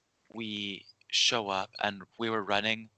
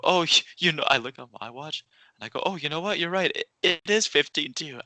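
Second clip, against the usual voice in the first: nervous backpedal; 5 semitones higher, 4 dB louder than usual. Retold or imitated. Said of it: "I was so afraid".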